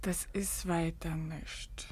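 faint, exhausted whisper; barely able to speak; drained whisper; weak whisper. Acted. Exhausted denial.

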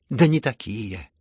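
building hysterical gloating retort. A narrator's reading. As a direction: spit it back with malicious glee. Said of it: "Со злорадством, как бы в истерике".

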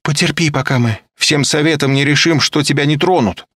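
high, loud insistent voice; nervous young woman. A narrator's reading. Olga tells him to endure, insistent. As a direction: insist he must wait.

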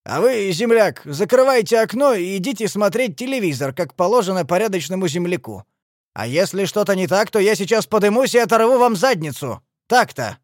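hard, forceful warning; threatening order. A narrator's reading. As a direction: order him inside with a threat. Thug threatens the old man.

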